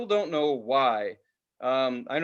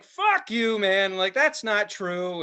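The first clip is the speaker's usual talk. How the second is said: indignant denial; 5 semitones higher, much slower than usual. Retold or imitated. Kid denying Cobain's death to a bully, high indignant. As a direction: refuse to believe it, outraged. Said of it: "I'm like".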